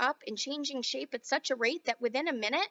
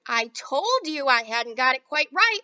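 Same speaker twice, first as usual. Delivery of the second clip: sigh; 7 dB louder than usual. Acted. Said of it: "sighed Mister Wonka".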